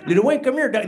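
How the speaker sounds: imitating a cholo calling out; cholo-accented mock taunt. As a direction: call over your target like a schoolyard cholo. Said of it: "two cholos dogging me".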